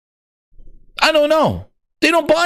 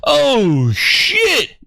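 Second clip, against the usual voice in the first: much higher, shouting hype; excited yelling; 8 semitones higher, slower than usual. Real, not acted. Streamer watching Herman win the fight, real excited shouting. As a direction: yell in disbelief at the beatdown.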